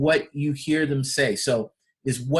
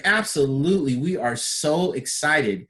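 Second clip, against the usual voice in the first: confident and excited. Retold or imitated. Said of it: "Or somebody's like".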